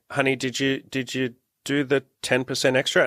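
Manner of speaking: lightly voiced gentle wife checking in; gentle Imogen. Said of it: "she really gently afterwards goes".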